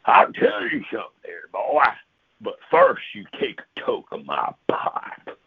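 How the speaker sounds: gruff Sasquatch offering an invitation; gruff, daddy-like character voice. Acted. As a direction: put on a gruff, fatherly creature voice. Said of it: "gruff voice".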